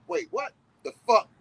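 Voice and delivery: high-pitched disbelief; shocked. Retold or imitated. Comic narrator baffled by the bird, high shocked squeal. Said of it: "I'm like".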